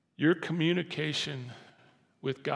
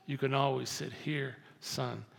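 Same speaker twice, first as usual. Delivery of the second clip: much softer, gentle father's reassurance; tender father; 4 semitones lower, 9 dB quieter than usual. Pretend. God as a father reassuring his child, softly and tenderly. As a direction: comfort the child quietly, like a loving dad. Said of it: "he'd say".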